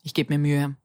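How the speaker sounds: talking while chewing gum. Real, not acted. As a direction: gum in the mouth while speaking. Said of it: "Ich hoffe, man hört's nicht".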